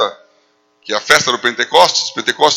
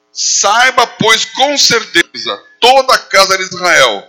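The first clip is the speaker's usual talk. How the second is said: forceful, deliberate proclamation; emphatic, raised preaching voice; Pedro; 3 semitones higher, slower than usual. Acted. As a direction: declare it boldly, drawing out the key words. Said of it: "Uma palavra de força".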